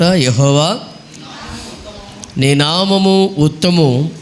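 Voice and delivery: slow, stretched-out psalm recitation; scripture reading. Real, not acted. Preacher rereads David's words to the congregation, slow scripture reading. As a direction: draw out the key words of the verse. Reads the verse again.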